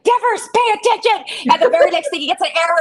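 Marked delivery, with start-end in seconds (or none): 0.0-1.5 high, raised call at a player; yelled warning. Retold or imitated. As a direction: call out to him from the stands. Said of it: "Mel just yelled".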